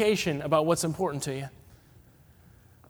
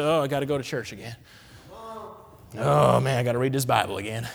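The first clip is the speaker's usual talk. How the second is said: reluctant groan; 4 semitones lower than usual. Retold or imitated. Voicing reluctant churchgoers.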